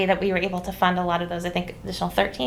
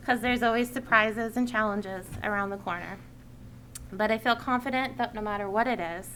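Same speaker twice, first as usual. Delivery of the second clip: measured read-out public statement; prepared speech; 2 semitones higher, 7 dB quieter than usual. Real, not acted. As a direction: deliver a written address to the committee. Reads a prepared committee speech.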